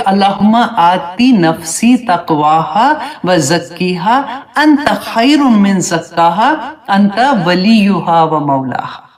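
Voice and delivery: slow, measured recitation of the Arabic supplication; Quranic dua recitation. Acted. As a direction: draw out each Arabic word like a prayer. (دعا کی آہستہ تلاوت)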